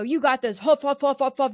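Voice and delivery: lightly hammed-up huffing gym-bro pep talk; mock macho grunting. Host mocks toxic masculinity with a light macho huffing. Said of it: "I call it the toxic masculinity that's like".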